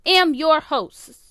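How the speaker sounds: punchy, forceful host intro, slow; overly intense podcast host greeting; aggressive. Real, not acted. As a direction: slam the words like a tough announcer. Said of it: "it's a little aggressive".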